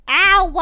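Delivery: sharp loud cry of pain; pained yelp. Real, not acted. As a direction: yelp as the back twinges. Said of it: "I hurt my back".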